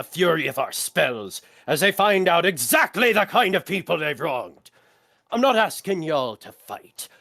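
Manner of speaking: lightly acted pre-battle rallying speech; a captain firing up the crew, measured with deliberate pauses; inspiring leader. Skirvo readies the crew against the approaching fleet, mildly rousing oratory. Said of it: "start with my inspiring leader".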